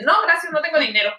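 retold polite refusal. Tourist turns down the rose seller, retold high refusal. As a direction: act out turning down a seller.

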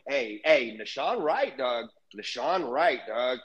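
low, lazy hype-man voice; imitating hyped-up fans; mocking fans. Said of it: "And people are going".

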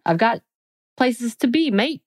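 put-on a quick, jokey British accent. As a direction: toss it off like a cheeky Londoner. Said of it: "That was my accent".

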